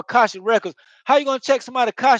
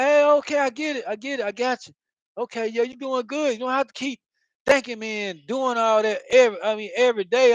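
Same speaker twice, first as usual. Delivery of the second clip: mock exasperated reply; 3 semitones higher than usual. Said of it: "you'll be like".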